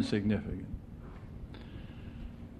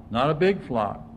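ordinary delivery

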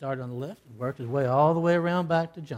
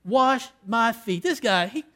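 scornful disbelief; 5 semitones higher, 5 dB louder than usual. Retold or imitated. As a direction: voice Judas scoffing at a servant king. Preacher voices Judas's scornful thought.

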